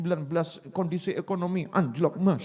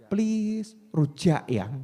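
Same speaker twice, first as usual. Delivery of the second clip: spoiled pleading; much slower than usual. Acted. Wife coaxing her husband for rujak, spoiled and pleading. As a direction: wheedle like a pampered wife. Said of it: "manja dalam meminta".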